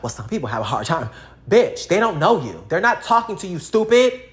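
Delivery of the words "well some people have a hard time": mock defensive whine. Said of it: "you argue like".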